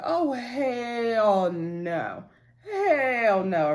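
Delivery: drawn-out, crying-out hell no; outraged hell no. Retold or imitated. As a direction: wail it in disbelief. Outraged reaction to CPS scene.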